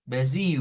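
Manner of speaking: Brasil ending in a held "iu" glide; prolonged ending. Shown as a demonstration. Teacher models Brazilian Brasil, slightly prolonged. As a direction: say Brasil with L turned into long U. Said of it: "un poquito prolongado".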